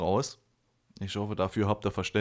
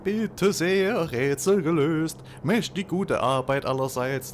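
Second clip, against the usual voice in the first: higher, louder triumphant character; smug character voice; 4 semitones higher, 4 dB louder than usual. Acted. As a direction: announce it proudly, in character. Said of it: "die Stimmen immer wieder vergesse".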